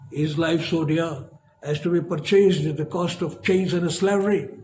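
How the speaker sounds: declaimed like a revolutionary speech, rising then hushed at the end; oratorical recitation. Acted. Lecturer reciting Patrick Henry's speech to students, declaimed. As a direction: deliver it as a patriot rousing the assembly.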